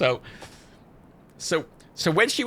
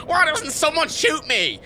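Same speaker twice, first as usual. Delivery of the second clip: higher, slow, through laughter; laughing plea; 4 dB louder, slower than usual. Real, not acted. Gamer joking about gunshot tattoos, laughing. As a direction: plead it through giggles.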